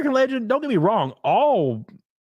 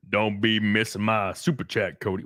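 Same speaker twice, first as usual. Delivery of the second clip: put-on viewer voice; 7 semitones lower than usual. Reads a viewer's message aloud.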